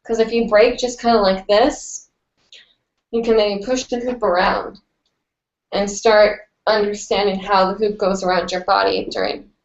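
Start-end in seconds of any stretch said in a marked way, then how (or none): 3.1-9.5 blocked, stuffy nose voice. Real, not acted. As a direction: talk through a stuffed-up nose. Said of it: "I'm so sorry if I sound kind of stuffy today".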